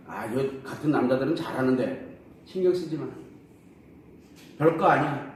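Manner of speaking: lightly voiced blunt dismissal; husband brushing off his wife's concern; curt brush-off. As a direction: toss it off curtly, wanting the talk over. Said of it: "이렇게 그냥 퉁명스럽게 툭 던집니다".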